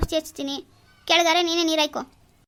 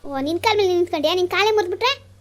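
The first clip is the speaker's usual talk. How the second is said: mocking threat; 2 semitones higher, 4 dB louder than usual. Husband mocks and threatens wife.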